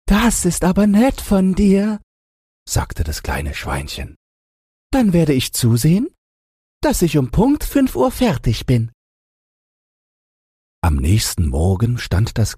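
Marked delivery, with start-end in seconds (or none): 0.1-2.0 high squeaky piglet voice; very high-pitched storybook pig; little pig. A narrator's reading. Little pig answers the wolf. 4.9-8.9 high squeaky piglet voice; very high-pitched storybook pig; little pig. A narrator's reading. Little pig promises the wolf.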